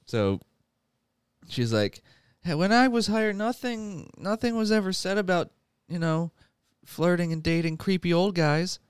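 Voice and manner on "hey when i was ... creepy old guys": indignant Jennifer. Retold or imitated. Jennifer complains about her job.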